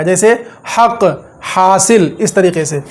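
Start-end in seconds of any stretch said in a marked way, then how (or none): 0.8-2.2 हक and हासिल with a throaty h; h from the throat. Shown as a demonstration. Teacher shows students a throaty h in हक. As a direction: push the h of हक from the throat. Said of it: "थोड़ा सा हलक से आएगा".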